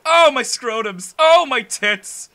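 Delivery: slow loud hammed-up groaning; mock pain wailing. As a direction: wail each injury slowly. Mock pain list while dying.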